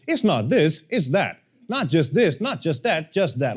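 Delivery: sing-song formula, each short phrase patterned alike; repetitive, mocking up-and-down lilt; mock scripted cadence. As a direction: parody a canned AI script. Mimics formulaic ChatGPT scripts.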